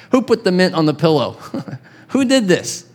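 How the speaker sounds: high, delighted marvel; amazed question. Real, not acted. Preacher marvels at the angel's bread, delighted. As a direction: gasp it out in wonder.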